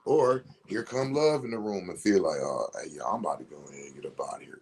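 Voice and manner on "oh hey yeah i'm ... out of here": lightly voiced fear. Voicing fear leaving quietly.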